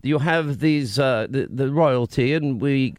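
badly faked British accent, stumbling along; bad British imitation. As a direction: do a clumsy mock-British Katie. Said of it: "is this your invitation of Katie".

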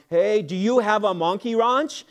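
light imitation of a Polish farmer's accent. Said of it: "he says in this Polish accent".

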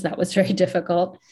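"very" broken by a real laugh, quick. Real, not acted. Speaker to interviewer, recalling the hard years, laughing. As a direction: laugh through "very", then land "difficult".

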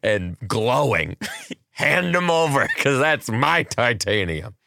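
slow, giggling greedy heir; a hint of a grabby relative, laughing; laughing mock demand. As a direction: demand the titanium through laughs.

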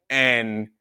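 ordinary talk, nothing marked

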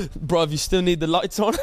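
imitated British accent, rising question. Roommate asking about lights in a mock British accent. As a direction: ask it in a put-on British accent. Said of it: "about having this accent".

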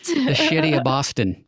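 put-on playful Boston accent, "shitty" for city; joking Boston accent. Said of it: "Is that your Boston accent?".

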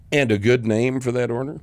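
lightly voiced chirpy cashier; a hint of a cashier's sing-song question; mimicking cashiers. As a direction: parrot the stock fast food line. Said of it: "every fast food restaurant ... started saying".

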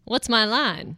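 fluttery helpless damsel voice; damsel in distress. Pretend. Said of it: "you did sound like a damsel in distress".

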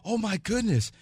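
high, gushing imitation of Tammy; mock woman's voice. Tammy meeting the fake twin, high delighted imitation. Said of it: "She goes".

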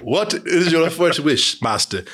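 slow, lightly voiced genie; a hint of a grand genie servant. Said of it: "did Corey find a genie".

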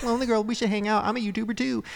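lightly voiced hopeful fan message; eager fan. Fan trying to DM Lonely Girl, eager.

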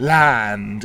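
"land" held long on a bright "a"; very bright vowel. Shown as a demonstration. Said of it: "the vowel has to be very bright".

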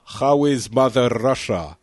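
a light put-on Russian accent on Mother Russia; mock Russian accent. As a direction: tease him with a hint of a Russian accent. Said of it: "Sorry, I had to do it once".

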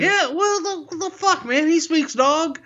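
laughing. Real, not acted. Laughing in disbelief.

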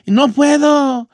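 put-on slow, drawn-out kid's whine; a kid stuck up a tree, whining to his friends below; whiny pleading. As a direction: beg from the tree like a scared boy. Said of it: "y empecé así".

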